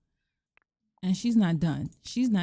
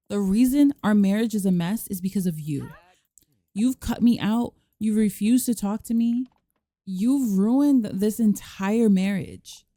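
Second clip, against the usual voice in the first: mock blaming wife; 4 dB louder than usual. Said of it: "blame everything on him".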